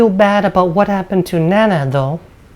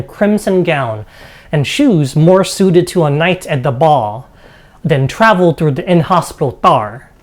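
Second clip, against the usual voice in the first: game master's measured narration; storyteller describing a dining hall; scene setting. Acted. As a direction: read out the room description to the players.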